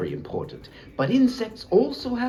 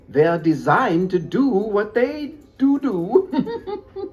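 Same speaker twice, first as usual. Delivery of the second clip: laughing; 4 semitones higher, 6 dB louder, slower than usual. Real, not acted. Joke on "do do.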